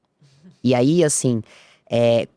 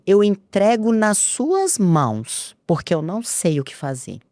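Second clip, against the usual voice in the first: praying to God; 4 semitones higher, slower than usual. Retold or imitated. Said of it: "e eu falei com Deus".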